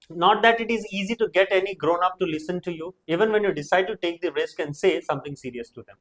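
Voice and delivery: slow, careful read of the English text; reading aloud. Shown as a demonstration. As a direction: read it out slowly for the class. Teacher reads English passage aloud.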